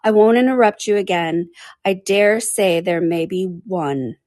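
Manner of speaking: mildly contrite, slowing at the end; gently conceding; humble. Acted. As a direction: promise meekly. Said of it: "said Alice very humbly".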